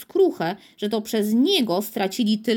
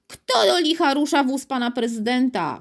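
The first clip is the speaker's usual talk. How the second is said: yelled; 3 semitones higher than usual. Acted. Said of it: "wrzasnął".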